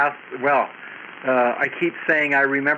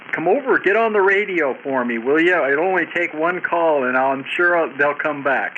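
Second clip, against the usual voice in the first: pleading; 4 semitones higher than usual. Retold or imitated. Retelling his plea to the wife.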